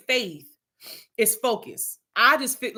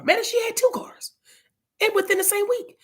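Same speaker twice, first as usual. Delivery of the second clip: whisper; 10 semitones higher than usual. Real, not acted. Aside about sister's cars.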